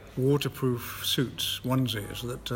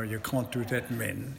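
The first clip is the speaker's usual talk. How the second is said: put-on South African accent. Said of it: "terrible South African accent".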